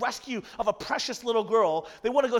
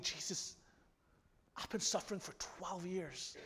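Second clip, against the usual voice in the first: pleading confession. Acted. Woman confesses to Jesus.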